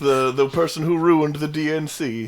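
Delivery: put-on high, accented old lady; scolding grandma. Voicing the grandmother.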